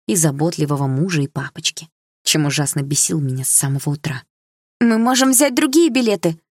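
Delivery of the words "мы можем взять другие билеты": high loud eager plea; eager exclamation. A narrator's reading. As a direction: exclaim it hopefully. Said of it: "воскликнула мама". (мама восклицает с надеждой)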